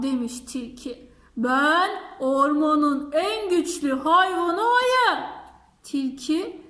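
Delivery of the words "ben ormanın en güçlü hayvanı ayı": proud bear. Acted. Bear announces himself.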